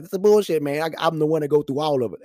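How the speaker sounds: loud, high-pitched exasperated complaint; frustrated outburst. Retold or imitated. Dad stuck taking son for shots, exasperated outburst. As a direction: protest loudly at the unfairness.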